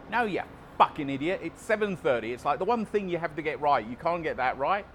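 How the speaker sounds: fantasy telling-off of the trainer; imagined angry rant. Pretend. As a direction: snap at him like he's an idiot.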